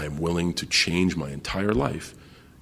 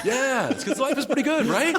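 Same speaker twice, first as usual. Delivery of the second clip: laid-back Hulk. Pretend. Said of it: "I'd be the shittiest Hulk ever".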